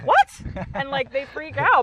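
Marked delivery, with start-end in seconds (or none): 0.0-0.4 very high, loud squeal of surprise; imitating friends gasping in disbelief; mock shocked what. Friends shocked she cleaned alone.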